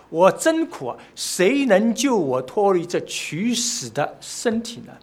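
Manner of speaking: loud, slow lament; impassioned quote of a desperate plea; crying out. Retold or imitated. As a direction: cry out for rescue, stretching the words. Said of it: "他呐喊了".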